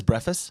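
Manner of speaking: breakfast said as "breffist"; variant pronunciation. Retold or imitated. Co-host quoting a friend's pronunciation, breakfast as "breffist". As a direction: skip the K in breakfast, "BREFF-ist". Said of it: "Jimmy says breakfast".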